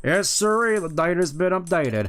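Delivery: a hint of country-bumpkin game character; lightly voiced folksy guide. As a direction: lightly play a helpful folksy guide, eager to explain.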